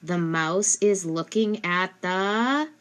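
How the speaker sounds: slow, hanging on "the," with a rising stop; trailing prompt. Shown as a demonstration. Parent leaving sentence blank for child, slow rising trail. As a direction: leave "the" hanging up in the air for the child. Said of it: "you might say".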